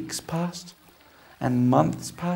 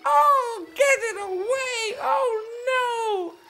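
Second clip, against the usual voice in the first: high, loud jeering duck voices; high shrill jeering ducks pushing him away; mean ducks; 5 dB louder, slower than usual. Acted. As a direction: sneer like a pack of nasty ducks. Other ducks voiced mocking.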